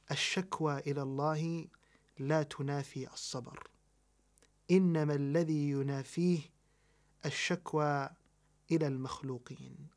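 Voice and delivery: rapid recited scholarly maxim; quick Arabic recitation. Acted. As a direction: rattle off the Arabic saying fast. Quoting scholars' Arabic principle.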